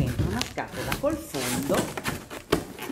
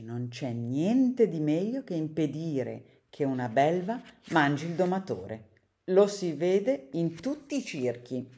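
lively read-aloud for children, characters voiced; storybook reading; 3 dB louder than usual. A narrator's reading. Reader reading a picture book to children, lively storytelling. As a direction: read the tale to kids with bright expression.

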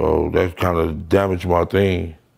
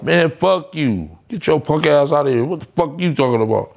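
defiant retort; 6 semitones higher than usual. Retold or imitated. His own retort, retold.

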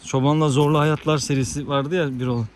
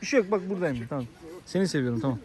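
soft, tender reassurance; reassuring; 7 dB quieter, faster than usual. Real, not acted. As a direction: comfort the dog quietly. Reassuring the jealous dog. (köpeğe şefkatle güven verme)

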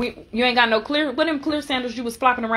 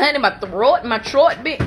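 a touch of Jamaican accent; Jamaican-sounding. Real, not acted. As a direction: let a light Jamaican lilt slip in. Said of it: "Now you sound Jamaican".

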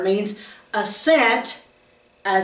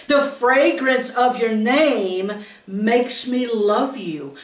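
tender bride; slower than usual. Acted. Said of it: "The bride looks at her bridegroom and tells him".

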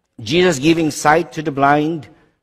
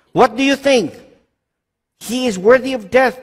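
condemning council; 7 semitones higher than usual. Acted. Priest asks, council answers.

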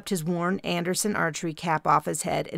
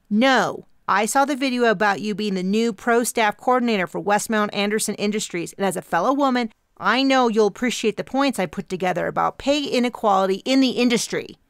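intense activist voice; 4 semitones higher, 4 dB louder than usual. Acted. Intense young activist character.

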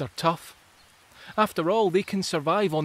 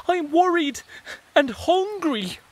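high, plaintive little voice; worried rotifer; 12 semitones higher, 7 dB louder than usual. Acted. Rotifer telling the others it's worried and hungry.

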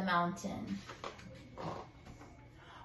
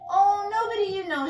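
shy squeak; 6 semitones higher, 5 dB louder than usual. A narrator's reading. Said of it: "she squeaked".

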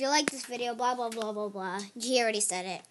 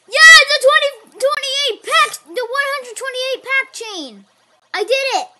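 chipmunk voice; 7 semitones higher, 10 dB louder than usual. Real, not acted. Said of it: "I sound like a chipmunk".

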